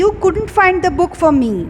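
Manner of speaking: slow, deliberate example; slow model sentence. Shown as a demonstration. Teacher reading an example slowly to students. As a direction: read it out slowly for the class. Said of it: "जैसे कि".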